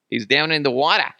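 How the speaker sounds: hammed-up Boston accent; bad Boston accent. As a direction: try a Boston accent and miss. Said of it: "trying to do a Boston accent".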